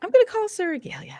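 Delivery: high, breathy whisper. Acted. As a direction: whisper it in secret. Repeats the line as a whisper.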